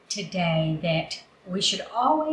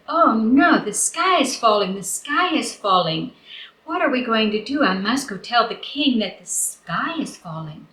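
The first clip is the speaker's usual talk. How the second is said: raised, alarmed cry of oh no; panicked hen; 3 semitones higher than usual. Acted. Henny Penny telling the barnyard, panicked and alarmed. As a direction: sound the alarm like a frightened hen. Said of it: "And she said".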